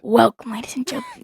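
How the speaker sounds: softly murmured show welcome; ASMR-like host voice. Shown as a demonstration. Kid copying dad's podcast welcome, ASMR-like host voice. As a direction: copy a hushed host, soft and close to the mic. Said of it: "It's almost like A S M R".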